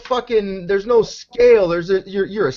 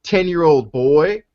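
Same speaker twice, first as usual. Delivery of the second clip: mock naive parent. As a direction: ham up the gushing parent handing over the kid.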